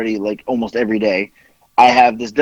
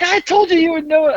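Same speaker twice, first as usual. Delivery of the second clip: voicing Amazon agent. Amazon agent voiced in story.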